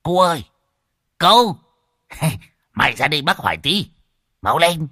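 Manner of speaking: cao, to gọi với qua hàng rào; gọi người làm vườn. Acted. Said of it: "liền gọi". (tiếng gọi to)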